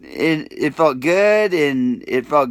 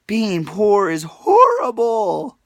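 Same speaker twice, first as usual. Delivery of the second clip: near tears; 5 semitones higher, slower than usual. Real, not acted. Hungry, broke, near tears.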